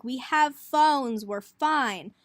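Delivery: slow, loud, know-it-all; dismissive. Retold or imitated. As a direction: brush off mom's idea. Kids brushing off mom.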